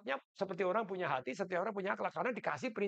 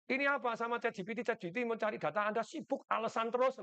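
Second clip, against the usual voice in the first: scolding the chatbot; 4 semitones higher than usual. Retold or imitated. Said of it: "Saya marahin toh".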